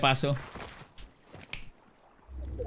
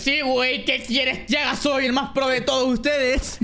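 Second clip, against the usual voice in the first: smug gamer; 5 semitones higher, slower than usual. Retold or imitated. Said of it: "el cabrón dice".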